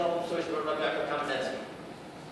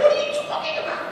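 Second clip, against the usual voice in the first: stunned disbelief; 4 dB louder, faster than usual. Retold or imitated. Stunned reply to the news.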